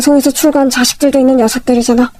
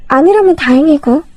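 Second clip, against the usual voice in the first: ordinary delivery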